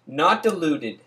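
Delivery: dramatic reading. Acted. A friend reading the hustler verses aloud, declaiming. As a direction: preach each line like scripture.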